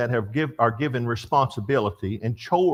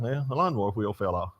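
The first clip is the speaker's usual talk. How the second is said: calm, shrugging; 3 semitones lower, 6 dB quieter than usual. Retold or imitated. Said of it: "you calm down a little bit".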